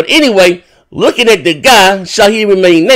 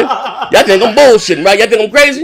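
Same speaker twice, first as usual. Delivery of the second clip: squeaky high laugh, slowing way down; real laughing what the fuck; laughing disbelief; 8 semitones higher than usual. Real, not acted. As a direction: crack up in disbelief, voice shooting up. Laughing incredulous outburst.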